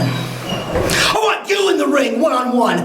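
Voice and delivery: slow, shouted demand; shouted challenge. Real, not acted. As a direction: bellow the challenge slowly, word by word. Wrestler calls out his rival.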